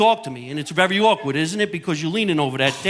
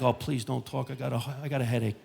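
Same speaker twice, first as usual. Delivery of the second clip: hungover groan-plea; 3 semitones lower, 10 dB quieter than usual. Retold or imitated. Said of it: "in your head, you're like".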